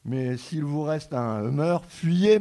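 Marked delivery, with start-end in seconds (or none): 1.9-2.4 shouted warning. Acted. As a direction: yell it, high and loud. Warning to flee. (cri d'alerte)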